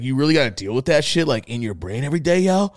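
lightly mimicked kid, voice rising on the final yo; a touch of street-kid disbelief; imitating the kid. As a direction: quote him with an incredulous upturn. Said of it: "he said it like that".

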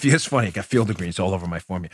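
normal talking voice

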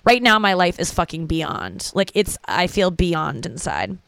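slow, dreamy socialite drawl; lightly voiced heiress musing, slowly; Paris Hilton. Comic imitating a celebrity's catchphrase, slow and dreamy. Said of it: "Paris is like".

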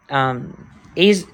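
usual speaking voice

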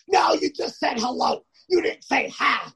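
high, whiny mock pedant; teasing friend splitting hairs; mocking Jamie. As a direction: nitpick in a sing-song high voice. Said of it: "He goes".

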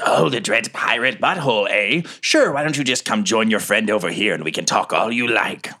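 put-on sly monster voice; taunting, mock-friendly invitation; voice in the head. Monster speaking inside the captain's head, taunting. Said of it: "another voice says".

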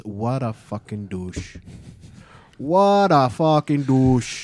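put-on drawn-out New York-style accent; Hit Girl. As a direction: stretch it slowly in a mock New York accent. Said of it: "Hit Girl says".

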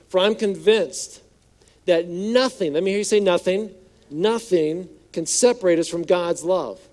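forceful scripture reading. Acted. Preacher reading Romans to congregation, strong-hearted. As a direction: proclaim each line boldly.

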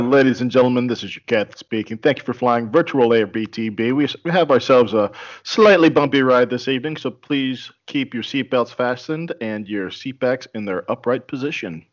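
airline captain announcement; calm captain addressing passengers; pilot over the radio. Acted. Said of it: "do a catchphrase".

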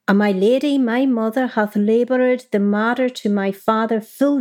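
measured Middle English letter reading. Shown as a demonstration. Marjorie writing to her Valentine, in Middle English pronunciation. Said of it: "I'm gonna do it in the Middle English".

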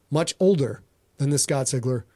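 usual speaking voice

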